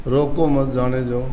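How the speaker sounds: रोको मत joined, no pause after रोको; comma removed. Shown as a demonstration. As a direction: run रोको straight into मत जाने दो. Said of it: "कोमा उसमें हटा दिया". (रोको मत जाने दो एक साँस में, बिना विराम)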